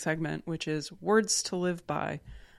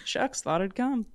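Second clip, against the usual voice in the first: mock dramatic monologue; 6 semitones higher than usual. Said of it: "college audition monologue".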